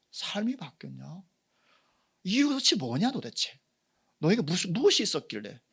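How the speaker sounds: a friend marveling, voice climbing high; excited friend. Retold or imitated. Friend asking the believer why, amazed and loud. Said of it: "나를 보고 이렇게 말하는 거".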